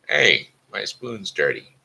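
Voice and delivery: Papa Bear grumbling, lightly voiced. Papa Bear finds his spoon dirty, mild grumble.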